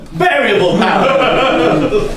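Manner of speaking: slow, loud words broken up by laughter; delighted laughing shout; laughing repeat. Real, not acted. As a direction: crack up while repeating the phrase. Repeating a partner's absurd suggestion.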